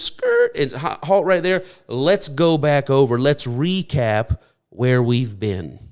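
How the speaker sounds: a leader calling his people to stop and look back; Moses voice. Acted. Preacher voices Moses halting people.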